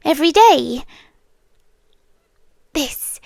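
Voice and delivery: intimate, lightly voiced otherworldly captor; a seductive haunted-house presence making a deal; captive spirit pleading. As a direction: coax the listener to stay, half whispered. Captor entity bargaining with listener.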